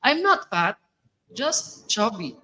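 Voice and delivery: proudly quoting Akai, slowing on just chubby; proud game hero line. Retold or imitated. Vlogger quotes the chubby panda hero's line, mock proud. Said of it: "Anong sabi ni Akai?".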